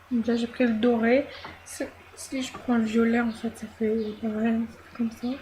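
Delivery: speaking through hiccups; hiccuping between words. Real, not acted. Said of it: "Pardon, j'ai le hoquet".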